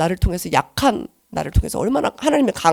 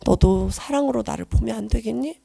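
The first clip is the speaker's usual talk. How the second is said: gentle divine voice; 8 dB quieter than usual. Pretend. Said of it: "라고 하실 것 같아요".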